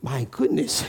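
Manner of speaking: put-on an old man marveling at a phone starting the car; mock amazement. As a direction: stretch it out in amazement.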